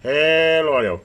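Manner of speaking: loud, drawn-out radio test call; calling out to check the transmit audio; mic check call. Real, not acted.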